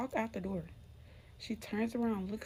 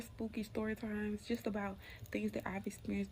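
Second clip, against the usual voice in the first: whisper; 7 dB quieter than usual. Acted. Spooky story outro, whispered.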